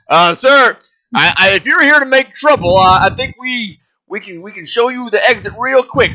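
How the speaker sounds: high, loud flustered barkeep; nervous bartender. Acted. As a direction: squeak out nervous threats. Bartender NPC nervous, threatened.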